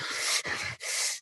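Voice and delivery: long breathy huff; noisy sigh of pent-up anger; acted heavy exhale. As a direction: let out a worked-up breath. Mimes himself still wound up, driving.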